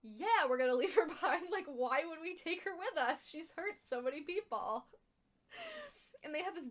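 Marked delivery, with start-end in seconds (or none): 0.0-4.8 louder, mock-exasperated retort; animated retold protest, pitched up a little; blunt David. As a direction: imitate someone stating the obvious, emphatically. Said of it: "who's just like".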